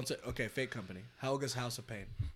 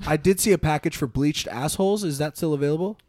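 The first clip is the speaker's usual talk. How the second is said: higher, louder caller voice; phone caller voice; 4 semitones higher, 9 dB louder than usual. Pretend. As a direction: play a cheeky customer calling in. Caller role in improv.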